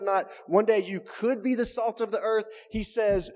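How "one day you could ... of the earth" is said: "could" leaned on, in a higher voice; stress on COULD. Shown as a demonstration. Preacher ruling out a misreading, stressing COULD BE. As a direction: raise the pitch and stress "could be". Contrasts wrong readings with "are.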